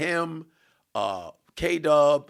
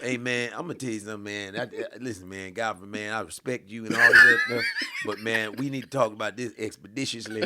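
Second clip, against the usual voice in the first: imitating T.I; 3 semitones lower than usual. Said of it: "you know how he would go into the woods".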